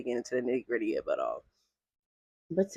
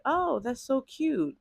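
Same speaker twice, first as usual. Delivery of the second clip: mock posh condescension; 9 semitones higher, much slower than usual. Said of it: "probably be like".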